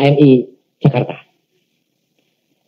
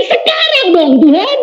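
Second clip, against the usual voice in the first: pleading; 13 semitones higher than usual. Retold or imitated. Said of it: "saya bilang".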